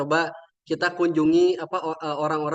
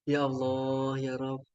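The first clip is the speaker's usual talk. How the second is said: much softer, low and hushed; hushed awe; 4 semitones lower, 7 dB quieter, much slower than usual. Real, not acted. Teller moved by the deaf children, hushed and soft. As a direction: breathe it out, moved.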